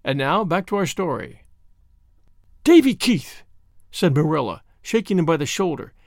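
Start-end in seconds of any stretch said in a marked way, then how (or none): 2.6-3.4 sharp raised call of his name; a scolding aunt calling the boy's full name; stern scolding call. Acted. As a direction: call him out, loud and stern. Marilla scolding Davy.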